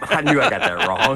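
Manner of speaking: laughing at himself. Real, not acted. Owning up to the birthday mix-up while laughing. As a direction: laugh through the admission of the mistake. Caught mixing up grandma's date.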